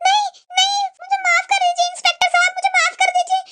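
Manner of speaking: begging for mercy. Acted. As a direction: beg him, drawing the words out.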